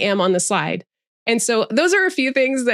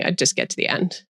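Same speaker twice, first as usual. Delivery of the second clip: vocal fry; 2 semitones lower, 4 dB quieter than usual. Shown as a demonstration. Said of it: "I would have the vocal fry".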